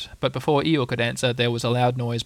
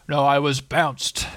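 gloomy donkey voice; much slower than usual. Acted. Eeyore's slow gloomy voice.

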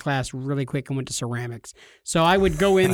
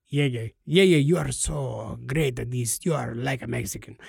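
put-on Spanish-accented admirer; 5 semitones lower, 3 dB quieter than usual. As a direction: imitate delighted praise in a Spanish accent. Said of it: "everybody would laugh and peal in laughter and like".

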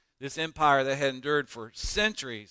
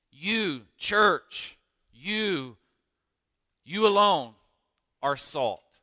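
building preacher's call; 3 semitones higher, 4 dB louder, much slower than usual. Real, not acted. Pastor calling out to the church, building to a shout. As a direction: build each "you" up to full force.

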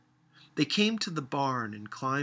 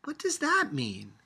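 sullen; 8 semitones higher, 3 dB louder than usual. A narrator's reading. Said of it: "asked the child sullenly".

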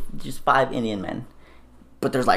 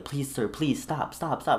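slow, higher-pitched mock begging; imitated pleading; 4 semitones higher, 4 dB quieter, slower than usual. Lady begging the storyteller to stop, imitated pleading. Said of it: "she was pleading with me in her".

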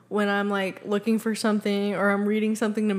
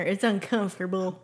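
Texan accent; 4 dB quieter than usual. Shown as a demonstration. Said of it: "As we Texans say down here".

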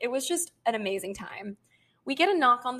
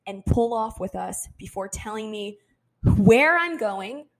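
angry demand; 5 dB louder than usual. Retold or imitated. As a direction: drag out each question, louder. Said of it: "I said".

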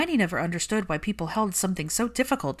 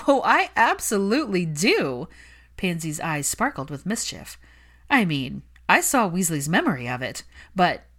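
louder, mischievous glee; gleeful Pansy; 5 dB louder than usual. Acted. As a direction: she can't wait to hear it. Pansy gleeful about the snog.

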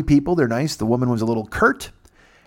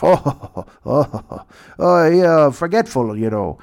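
mocking guard; 3 semitones higher, slower than usual.

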